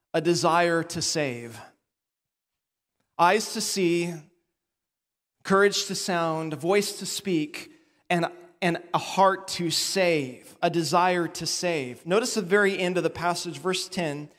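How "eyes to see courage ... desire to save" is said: slow, weighted recap; summing up the watchman's duties, point by point; sermon recap. Shown as a demonstration. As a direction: spell out each point slowly. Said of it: "recapping the points".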